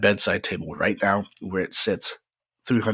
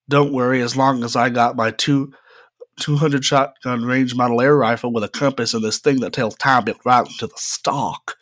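put-on southern cowboy accent; 3 semitones higher than usual. Cowboy burglar reciting his one stage line, light southern accent. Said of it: "he had a southern accent 'cause he's a cowboy".

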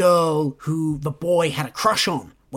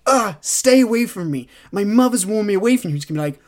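hammed-up anguished pleading, building louder; melodramatic heroine; 5 semitones higher, 6 dB louder than usual. Host predicting the heroine's angsty line, loud and hammed-up. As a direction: play the tortured lover pushing him away. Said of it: "her being like".

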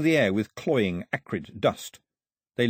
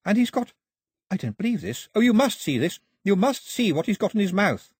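high-pitched, eager amazement; excited calling out; 10 semitones higher, 3 dB louder than usual. A narrator's reading. Daphne urging Mao to see skeleton, excited calling. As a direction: call him over to a thrilling find. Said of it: "Daphne called out".

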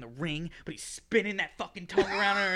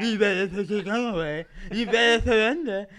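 mock hero threat; 2 semitones higher, 8 dB louder than usual.

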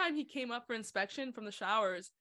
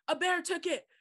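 a lightly raised, loud innocent claim; deadpan recruit excuse; 7 semitones higher, 5 dB louder than usual. Retold or imitated. Recruit explaining lost kit to the sergeant, mock innocent. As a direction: say it as if it's perfectly reasonable. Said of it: "he was like".

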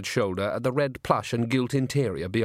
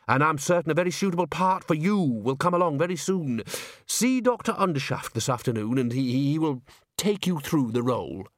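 lightly voiced, reassuring manager; a touch higher, smoothing things over; placating opera manager; 4 semitones higher than usual. Bucket promising Agnes a part later, mildly placating.

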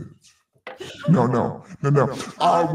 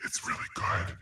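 booming arrogant alien overlord; 5 semitones higher, faster than usual. Acted. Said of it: "like an alien overlord or something".

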